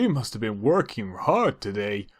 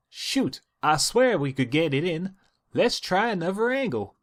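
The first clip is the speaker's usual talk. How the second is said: higher, mild annoyance; high mildly frustrated sister; 6 semitones higher than usual. Acted. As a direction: shake off the setback, high. Applejack frustrated.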